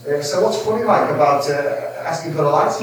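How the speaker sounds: a hint of a Scouse accent; lightly voiced Scouse tough guy. Scouse stranger challenging the laughing teens, mild Scouse accent. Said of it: "in a Scouse accent".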